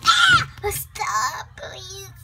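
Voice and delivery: high wail fading into a whine; whiny crying. Pretend. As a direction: cry out, then whimper a plea. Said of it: "Stop being a whiny pants".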